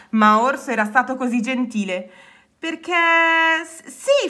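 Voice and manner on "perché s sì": high, halting delivery; stuttering through a big smile; happy stammer. A narrator's reading. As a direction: stumble over the words with delight. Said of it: "farfugliò con un grande sorriso".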